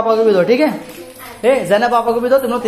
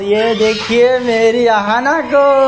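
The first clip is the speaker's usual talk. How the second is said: excited greeting; 7 semitones higher, 6 dB louder, slower than usual. Real, not acted. (बच्चों से मिलने की उत्साहित आवाज़)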